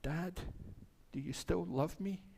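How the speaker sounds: small, soft, hesitant plea; acting out a hurt child seeking reassurance; tearful child. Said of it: "kind of tears in his eyes".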